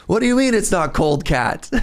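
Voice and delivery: high mock Italian protest; indignant Italian accent. Replaying the student's objection, indignant mock Italian accent. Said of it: "his heavy Italian accent".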